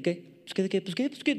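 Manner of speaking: gallito de pelea fingido; imitando a peleonero. Retold or imitated. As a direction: imita a un joven que busca pleito. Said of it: "así como gallitos de pelea". (gallito de pelea, en imitación)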